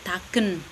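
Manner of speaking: taken with no final E; Lerek taken. Shown as a demonstration. Lecturer giving the Lerek form, taken without E. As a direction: say taken in two syllables. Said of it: "Tetapi untuk orang Lerek".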